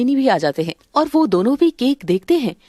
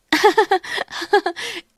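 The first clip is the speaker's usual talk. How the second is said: mocking laugh; 6 semitones higher, 3 dB quieter than usual. Mocking laugh at crying girl.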